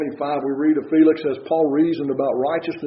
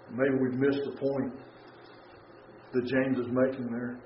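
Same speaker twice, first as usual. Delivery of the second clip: ordinary talk, nothing marked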